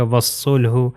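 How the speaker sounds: وصلہ as "was-sulhu", alif and lam silent; وصلہ with a heavy double s; waw joined to saad. Shown as a demonstration. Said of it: "واو جو ہے سواد سے مل جائے گا".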